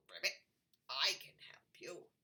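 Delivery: secretive whispered frog voice; whispering frog. Acted. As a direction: hiss it like a sly little frog. Frog speaks to princess.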